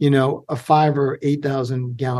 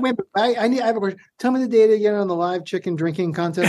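laughing; 5 semitones higher, faster than usual. Real, not acted. Host cracks up asking silly question.

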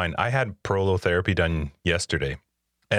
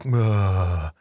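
mocking sick husband; 3 dB louder than usual. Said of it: "be like Tyler and be like".

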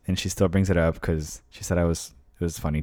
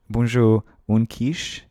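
higher, hesitant French attempt; mock French accent; bad French accent; 3 semitones higher, 4 dB louder, much slower than usual. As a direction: try ordering in halting French. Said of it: "that was a really bad French accent".

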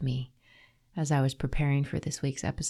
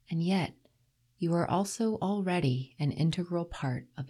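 reading a love letter. Acted. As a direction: read it tenderly like a love poem. Reads a love letter aloud.

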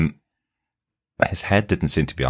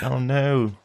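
laughing; 9 semitones higher than usual. Retold or imitated. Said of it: "It's like".

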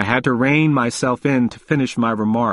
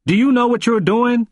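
put-on old man pressing hard, voice raised high; forceful question; 10 semitones higher, 3 dB louder than usual. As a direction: demand it of him, much higher and louder. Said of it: "and said forcefully".

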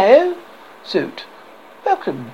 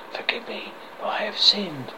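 hushed, much softer whisper; 10 dB quieter than usual. Acted. Penitent voice confessing, whispered. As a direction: breathe it like a confession. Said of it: "Voice, whispering".

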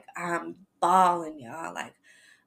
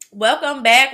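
upbeat greeting; 6 semitones higher, 10 dB louder than usual. Shown as a demonstration. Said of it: "returning from break".

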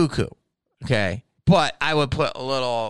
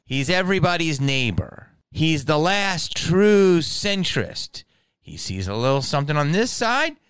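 higher, hammed-up promo; mock promo voice; 9 semitones higher than usual. Promoting himself as the centrist, hammed-up promo. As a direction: sell yourself like a cheesy ad.

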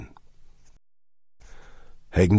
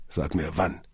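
whispering; 2 semitones lower, 5 dB quieter than usual. A narrator's reading. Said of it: "flüsterte er".

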